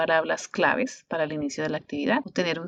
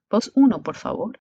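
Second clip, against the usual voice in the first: firm classroom command, raised; teacher's command voice; 4 semitones higher, 6 dB louder than usual. Shown as a demonstration. Teacher giving the class a command, firm and raised. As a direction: call it out to the class. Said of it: "el comando es".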